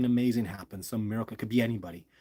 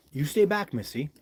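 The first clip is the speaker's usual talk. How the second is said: raised-pitch command, easing on the name; calling out an order; 3 semitones higher than usual. Real, not acted. Vlogger telling Missy to stay off his gear, higher-pitched command. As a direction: order her back from the camera.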